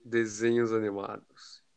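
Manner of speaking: slow title announce. Shown as a demonstration. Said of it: "Repita a palavra desenhos animados".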